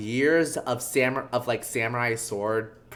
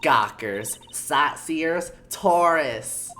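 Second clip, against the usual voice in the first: put-on emphatic old busybody list; old security guard with a hick touch; old bag guard; 2 semitones higher, 3 dB louder, much slower than usual. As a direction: spit out each word separately. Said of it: "like, country hick".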